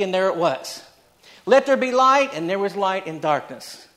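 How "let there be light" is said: booming command. Acted. God commanding creation, voiced.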